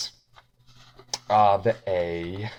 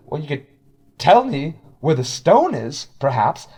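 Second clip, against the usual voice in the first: sly high voice; 5 semitones higher, 7 dB louder than usual. Acted. Changeling asks.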